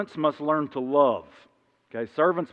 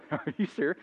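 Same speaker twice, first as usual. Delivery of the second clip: laughing disbelief; 3 semitones higher, 4 dB quieter than usual. Retold or imitated. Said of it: "kinda laughed at me".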